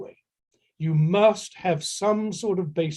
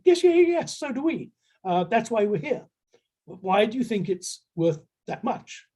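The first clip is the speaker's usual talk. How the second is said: higher, keen but pressing voice; mock buyer eagerness; 5 semitones higher than usual. Licensing buyers push the seller on price, higher and pressing.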